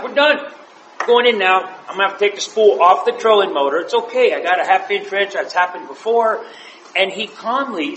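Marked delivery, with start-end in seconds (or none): 0.0-6.4 high, loud, hurried with laughter; excited hurry. Retold or imitated. Telling his buddy they're heading in, laughing and excited. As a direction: rattle it off, half laughing. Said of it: "So I'm like".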